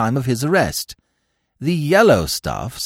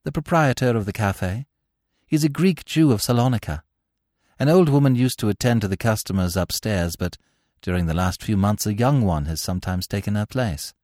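a hint of a deferential witness, pitched up a little; informant witness. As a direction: give up the details to your interrogator.

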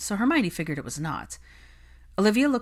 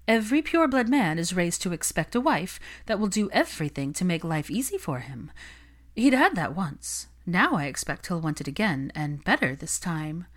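smug socialite. Acted. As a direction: preach the rules of the marriage game. Olivia lectures on pureblood wives.

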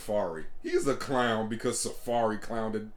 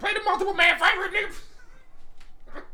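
calling out; 4 dB louder than usual. Real, not acted. Calling out to play song.

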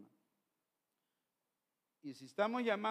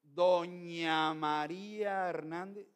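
slow, drawn-out formal title; slow, deliberate read-out of a name; reading a document; slower than usual. Retold or imitated. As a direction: stretch out "Doña" as if reading it off a document. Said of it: "decía".

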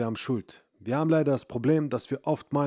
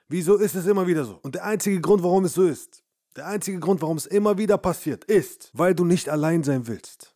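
raised, higher voice hammering the point home; loud rant; 5 semitones higher, 5 dB louder than usual. Acted. Coach ranting at listeners about dependence, loud and raised. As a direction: shout the question at the viewer.

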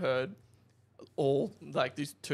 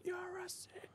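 high yelling bogan cheer; crowd cheer. Retold or imitated. Crowd cheers the burnout, high yell. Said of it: "all the people are yelling".

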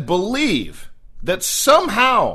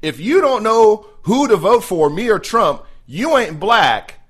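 comfortable, smug quote. Retold or imitated. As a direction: lightly imitate a self-satisfied politician. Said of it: "the amount of comfort-, comfortability".

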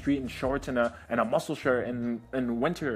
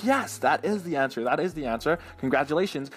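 lightly acted delight, pitch lifted then settling; mild celebratory praise of a pupil; happy teacher; 2 semitones higher than usual. Teacher praising the kid's right answer, mildly delighted. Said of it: "she was so happy".

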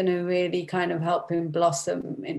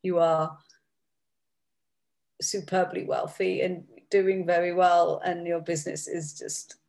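dry sarcastic quote, lightly done; a touch of mock exasperation. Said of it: "it's almost like a sarcastic".

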